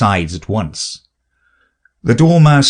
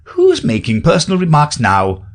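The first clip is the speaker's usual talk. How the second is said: triumphant; 6 semitones higher than usual. Acted. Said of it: "asked triumphantly".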